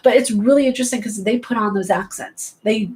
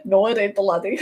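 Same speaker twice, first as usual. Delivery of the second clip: playful attempt at a Scottish accent. Protesting a viewer's remark, mock Scottish accent. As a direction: put on a rough-and-ready Scottish accent. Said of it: "Your Scottish is not as strong".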